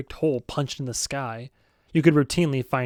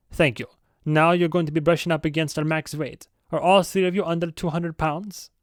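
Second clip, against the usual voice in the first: put-on Swedish accent; 3 semitones higher than usual. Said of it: "I know it's more German".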